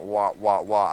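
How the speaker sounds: mock swan "wah" noises, punched out; imitated swan cry. Swan jumping back after biting a thumb, imitated cry. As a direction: honk it out in short bursts. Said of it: "starts doing that".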